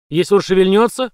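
громко, подъём на шевельнётся; грозно спрашивает; угроза вопросом. A narrator's reading. (угрожающий вопрос)

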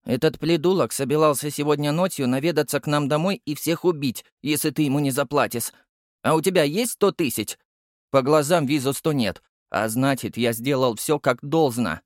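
put-on high squeaky child voice, firm and hard; squeaky but stern. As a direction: lay it out coldly in a little kid's voice. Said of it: "жёстко сказал я писклявым голосом".

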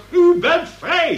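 high, loud insistence on "U"; a judge loudly telling a defendant he is free; insistent exclamation. Acted. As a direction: hammer it home, loud and high.

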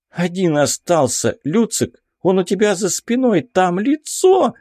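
alarm climbing into a squeal. A narrator's reading. Tanya warns the teacher of a face behind him, squealing. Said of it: "взвизгнула Таня".

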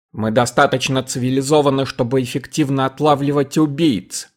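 ordinary delivery, nothing marked

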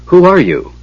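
high, amazed question; astonished gasp. A narrator's reading. Knight questioning the keeper of Huma's lance, astonished. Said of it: "Storm gasped".

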